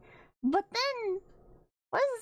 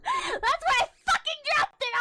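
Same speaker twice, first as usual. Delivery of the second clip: higher, louder laughing exclamation; exasperated outburst; 10 semitones higher, 4 dB louder than usual. Real, not acted. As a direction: blurt it out laughing in disbelief.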